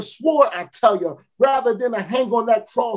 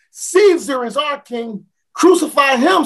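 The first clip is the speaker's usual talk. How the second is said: screamed demand; 5 semitones higher than usual. Acted. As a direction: yell it at the prisoner. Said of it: "someone screamed".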